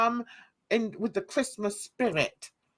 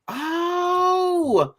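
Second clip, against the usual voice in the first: surprised cry; 6 semitones higher, 3 dB louder than usual. Real, not acted. Overjoyed cry on seeing Gary.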